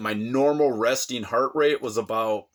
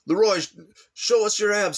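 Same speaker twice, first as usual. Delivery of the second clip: teasing woman; 8 semitones higher than usual. Retold or imitated. Women teasing at the bar.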